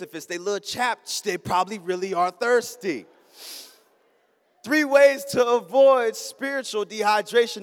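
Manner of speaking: sermon delivery, steady preaching; pregação. Acted. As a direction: preach it to the congregation.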